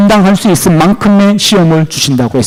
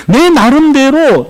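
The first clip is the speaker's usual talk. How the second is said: ordinary delivery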